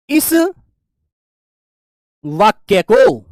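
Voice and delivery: each word dropped slowly with long gaps; measured dictating voice; slow dictation. Shown as a demonstration. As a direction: read it out for the class to copy. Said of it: "dictating the rule".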